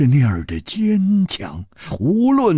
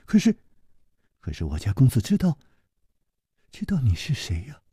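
put-on timid young servant; 3 semitones lower, 4 dB quieter, faster than usual. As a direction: falter out the words, ashamed. Yijian asks.

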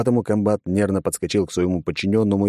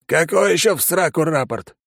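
unkindly; 11 semitones higher, 3 dB louder than usual. A narrator's reading. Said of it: "недобро сощурил глаза".

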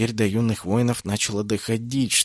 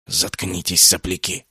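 usual speaking voice

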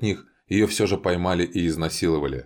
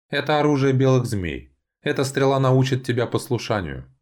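high, forceful pronouncement; menacing elf envoy; 7 semitones higher than usual. A narrator's reading. Elves lecture wounded Valian, high and commanding. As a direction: lay down the punishment coldly. Elves answer after shooting him.

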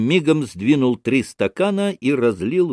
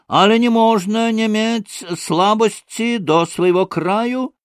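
very high, indignant outcry with Polish words; heated exclamation; 12 semitones higher, 3 dB louder than usual. A narrator's reading. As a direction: boil over in a high-pitched protest. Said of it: "возгласил он". (возмущённый высокий возглас)

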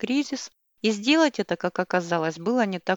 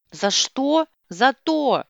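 loud, higher furious yell; yell back; 5 semitones higher, 4 dB louder, much slower than usual. A narrator's reading. Wife yells back at her husband, furious and loud. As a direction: hurl the words back at him. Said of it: "в ответ заорала мама мальчиков".

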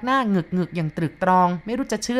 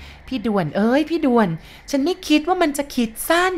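high tearful pleading wail; crying plea; 9 semitones higher than usual. Acted. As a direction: call him through tears. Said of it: "ผู้หญิงคนนั้นพูดไป ร้องไห้ไป". (หญิงร้องไห้เรียกพี่ด่วน เสียงสูงคร่ำครวญ)

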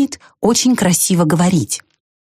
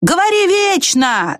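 mild shout; 11 semitones higher, slower than usual. A narrator's reading. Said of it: "закричал ёжик".

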